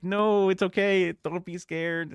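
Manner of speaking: high, slow, soothing coax. Pretend. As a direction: gently coax a scared cat. Coaxing the hiding cat.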